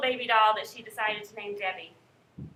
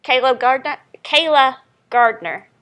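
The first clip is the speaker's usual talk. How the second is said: calling roll; 9 dB louder than usual. Real, not acted.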